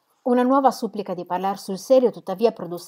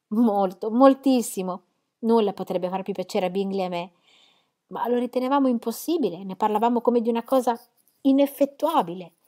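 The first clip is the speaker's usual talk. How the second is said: lightly voiced eager sister, a bit higher; a hint of Jane's gushing joy; Jane, delighted; 3 semitones higher, 4 dB louder than usual. Jane tells Lizzie of her happiness, lightly higher.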